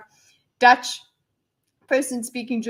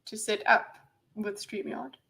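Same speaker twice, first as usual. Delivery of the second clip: whisper; 2 semitones lower, 7 dB quieter than usual. Real, not acted. Trailing aside.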